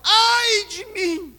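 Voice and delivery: very slow, high, loud, tearful wail; sobbing lament. Acted. Preacher voicing Isaiah weeping. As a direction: weep it out, broken. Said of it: "ele fala".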